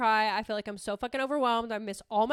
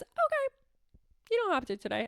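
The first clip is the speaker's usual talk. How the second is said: soft permissive inner voice; 7 semitones higher than usual. Retold or imitated. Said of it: "a little voice in my mind that was like this".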